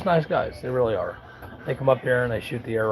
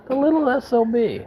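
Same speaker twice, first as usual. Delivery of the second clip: sudden high-pitched, slightly louder mock outrage; muttered insult; 13 semitones higher, 4 dB louder than usual. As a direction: spit out the insult in disbelief. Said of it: "and I'm like".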